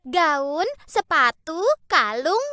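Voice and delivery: spoiled daughter demanding gifts; greedy daughter. A narrator's reading. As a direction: rattle off wants like a spoiled girl. Greedy daughters list their wishes.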